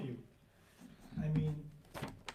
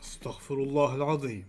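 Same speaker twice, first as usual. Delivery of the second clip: movie trailer voice; 3 semitones lower, 7 dB quieter than usual. Pretend. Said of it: "like, the movie trailer voice".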